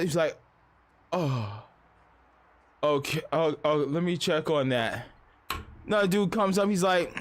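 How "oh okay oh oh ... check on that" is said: low, halting dopey mumble; spaced-out worker. Retold or imitated. Stoned worker answering a waiting customer, spaced-out.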